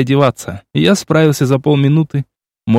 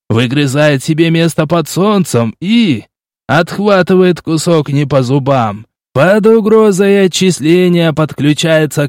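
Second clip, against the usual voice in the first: mocking gym coach.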